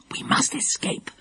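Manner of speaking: urgent whisper. A narrator's reading. Dinah whispering to Lucy Ann, urgent whisper. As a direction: hiss it so nobody hears. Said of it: "whispered Dinah".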